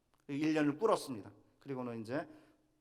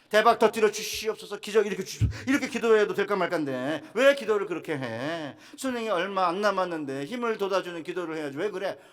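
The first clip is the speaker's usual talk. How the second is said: higher, louder nagging scold; imitating angry wife; 6 semitones higher, 9 dB louder than usual. Wife scolding husband over his gloomy prayer, mock angry. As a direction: fire off the complaints at your husband, exasperated. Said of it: "막 승질 부리는 거예요".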